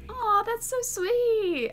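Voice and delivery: high, loud, drawn-out coo; gushing. Acted. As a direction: gush slowly with a big "aw". Cooing at a proposal.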